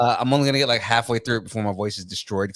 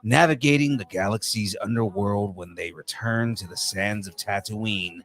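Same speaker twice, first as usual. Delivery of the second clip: movie guy voice; 2 semitones lower than usual. Pretend. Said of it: "in the movie guy voice".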